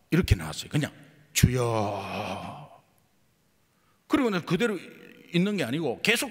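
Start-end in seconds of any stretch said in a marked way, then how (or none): 1.3-2.8 one long drawn-out plea of 주여; earnest prayer. Retold or imitated. Holding the drunk man's hand, a slow pleading cry. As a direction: stretch the cry out slowly, pleading. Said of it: "간절한 마음에 내 마음에 입에".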